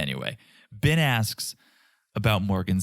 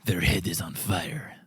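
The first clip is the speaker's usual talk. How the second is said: put-on Eastern European accent; 5 semitones lower, 4 dB quieter than usual. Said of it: "Your Eastern European accents are all the same".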